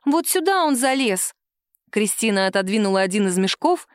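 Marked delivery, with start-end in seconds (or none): 0.0-1.3 put-on high, eager child's voice; little girl defending her doll. A daughter defends her doll to her mother, childlike and high. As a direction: plead like a stubborn little girl.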